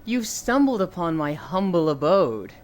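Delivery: a lightly voiced, slow sultry greeting; seductive vampire lady. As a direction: purr it out slowly like a temptress. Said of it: "she's like".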